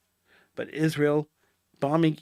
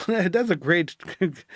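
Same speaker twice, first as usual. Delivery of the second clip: laughing; slower than usual. Real, not acted. Laughs at own joke.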